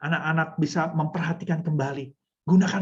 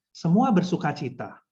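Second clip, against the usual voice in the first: shy, joyless counterexample; malu-malu. Shown as a demonstration. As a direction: hold back the joy, as a bad example. (contoh malu-malu tanpa semangat)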